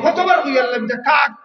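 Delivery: a touch of an impatient son snapping at his father; half-shouted retold rebuke; mild scolding. Son scolding his old father over the crow, mildly angry. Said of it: "বাচ্চা ধমক দিয়া কয়".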